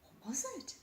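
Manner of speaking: small wondering question. A narrator's reading. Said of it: "Margaret asks".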